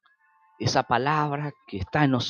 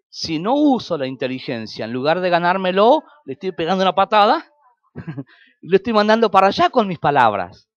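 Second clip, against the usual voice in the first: fiery preaching; 6 semitones higher, 8 dB louder than usual. Real, not acted. Preaching climax on kicking away.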